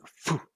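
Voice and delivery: quick puff of air for a throw; imitated throwing whoosh. Entity throws the ball at him, imitated whoosh. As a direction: blow out a short whoosh.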